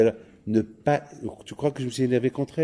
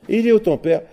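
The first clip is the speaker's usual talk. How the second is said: amazed; 9 semitones higher, 5 dB louder, faster than usual. Acted. Son amazed by living father.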